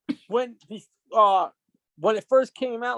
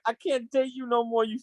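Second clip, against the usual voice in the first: angry breakup; 3 semitones higher than usual. Retold or imitated. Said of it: "you're like".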